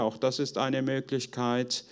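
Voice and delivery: normal talking voice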